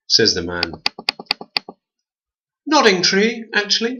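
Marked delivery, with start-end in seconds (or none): 2.6-4.0 high, prissy correction; twin voice. A narrator's reading. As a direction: correct him smugly. Twins correcting.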